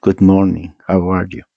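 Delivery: a lightly mocked American English greeting.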